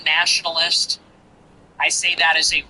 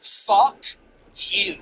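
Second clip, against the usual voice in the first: heated rant. Real, not acted. Rallying rant calling people out.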